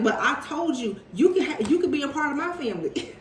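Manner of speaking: mock quote broken up by laughter; giggling impression of the man; laughing through the quote. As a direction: laugh while playing the man's reply. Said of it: "This man is like".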